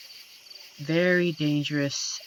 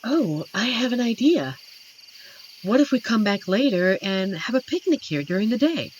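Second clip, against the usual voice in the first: excited idea; 6 semitones higher, 5 dB louder than usual. Acted. Sudden picnic idea.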